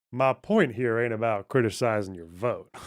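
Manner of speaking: a light attempt at an American accent; practising an American accent from a debate clip. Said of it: "if I wanna learn an American accent".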